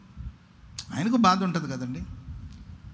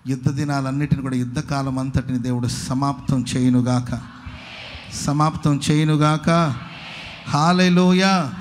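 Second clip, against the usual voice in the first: preached blessing; 4 semitones lower, 4 dB louder than usual. Real, not acted. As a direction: pronounce it over the congregation, drawing out the final words. Pronounces a blessing over congregation. (ఆశీర్వాద ప్రకటన, సాగదీసిన హల్లెలూయా)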